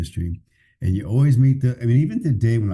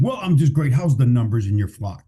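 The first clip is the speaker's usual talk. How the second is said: mock pious pastor. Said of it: "I know he don't talk like that at home".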